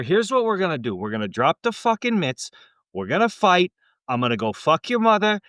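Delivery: hammed-up Canadian hoser picking a fight; Canadian accent. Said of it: "a Canadian or a Boston accent to choose from".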